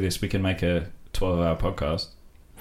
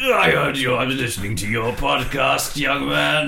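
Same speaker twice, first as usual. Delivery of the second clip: higher, louder put-on royal voice; Prince Philip; 6 semitones higher, 4 dB louder than usual. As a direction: impersonate an elderly royal. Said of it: "I'm Prince Philip".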